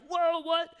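mock shocked shout, high and loud; hammed-up disbelief; shocked brothers. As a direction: blurt it out like the brothers' jaws drop. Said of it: "And they're like".

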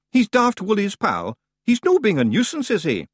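very high, offhand Scots; Scottish clan leader. A narrator's reading. Rob introducing a cheese, high airy Scots.

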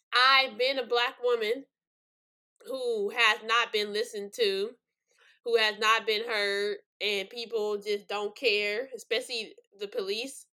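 slow and heavy, near tears; each phrase pushed out slowly, holding back tears; getting emotional. Real, not acted. Black woman on feeling unheard, slow and choked up. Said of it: "I'm getting emotional".

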